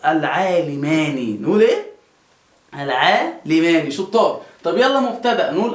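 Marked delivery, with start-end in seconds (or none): 0.1-1.4 slow "العالمان", sounding the last ن as "ni"; final nun with kasra. Shown as a demonstration. Teacher showing students the dual's kasra, "العالمان" ending in "-ni". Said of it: "ودايمًا في المثنى تكون مكسورة". 2.7-3.9 "العالمان" drawn out, closing on a short "-ni"; final nun with kasra. Shown as a demonstration. Teacher repeating for students after asking, "العالمان" with final "-ni". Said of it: "ودايمًا في المثنى تكون مكسورة".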